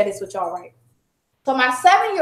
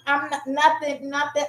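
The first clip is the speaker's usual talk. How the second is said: put-on reluctant child; 6 dB quieter than usual. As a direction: mumble it, not wanting to talk. Acts out reluctant crying daughter's answer.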